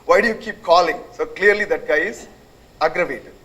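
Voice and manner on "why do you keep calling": mock exasperated outburst, louder; hammed-up annoyance at repeat caller; retold caller snapping at a prankster, raised voice; losing it. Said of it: "that guy is kind of losing it".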